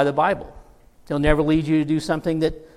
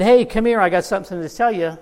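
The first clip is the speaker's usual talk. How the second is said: higher, louder toad voice; talking toad; 4 semitones higher, 5 dB louder than usual. Retold or imitated. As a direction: call out like an eager little toad. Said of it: "my son's toad talked to me".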